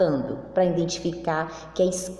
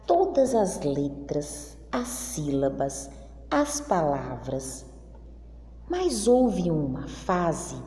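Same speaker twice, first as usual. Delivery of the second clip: slow, storybook read-aloud with long pauses; reading to children. Acted. Teacher reading the class text aloud, slow storybook style. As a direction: read it to the class like a picture book.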